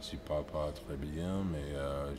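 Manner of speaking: speaking French in a French accent. Shown as a demonstration. A player asked to show his French accent. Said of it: "please show everybody your French accent".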